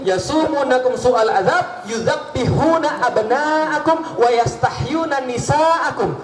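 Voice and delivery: slow, chanted Quran verse; slow recitation. Acted. Preacher reciting the verse slowly, chanting. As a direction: intone each word slowly. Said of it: "Quran recitation".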